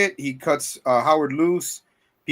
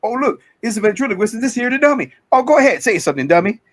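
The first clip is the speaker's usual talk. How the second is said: loud, higher-pitched imitation of a heckler; mocking heckle; 9 semitones higher, 8 dB louder than usual. Retelling truckers taunting the ventriloquist and dummy, mocking heckle. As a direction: jeer it out loudly, as if taunting a stooge.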